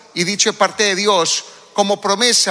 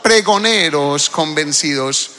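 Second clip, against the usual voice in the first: slow, emphatic; 4 semitones lower than usual. Shown as a demonstration. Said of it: "Dígalo conmigo en voz alta".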